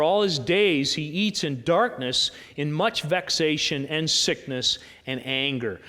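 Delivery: slow, measured sermon reading; scripture reading. Acted. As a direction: read the verse out deliberately. Reads scripture aloud.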